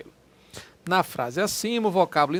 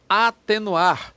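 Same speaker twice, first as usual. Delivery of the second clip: drawn out, a touch louder; slow demo word; 2 semitones higher, 5 dB louder, much slower than usual. Shown as a demonstration. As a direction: lay out the word slowly for students. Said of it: "teacher shows word". (professor pronuncia devagar para a turma)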